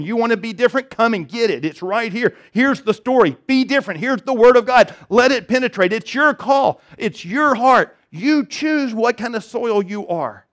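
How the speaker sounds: a touch of pleading call to choose; Jesus inviting. Retold or imitated. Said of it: "He's saying".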